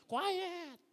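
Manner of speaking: high, loud barked order; shouted command. Pretend. Pastor acts out Caleb silencing the people, loud shout. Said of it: "sumisigaw ka na".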